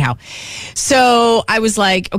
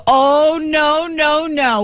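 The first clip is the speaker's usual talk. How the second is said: emphatic protest; 6 semitones higher, much slower than usual. Retold or imitated. Protesting staying before closing time.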